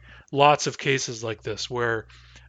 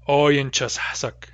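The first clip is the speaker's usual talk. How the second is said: slow demo pronunciation; slower than usual. Shown as a demonstration. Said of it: "synthesize those into one word and say".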